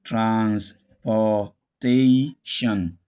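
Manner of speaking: "transportation" slowly split into trans, por, ta, tion; syllable by syllable. Shown as a demonstration. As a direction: say "transportation" in separate slow syllables with a full POR. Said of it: "a word like this".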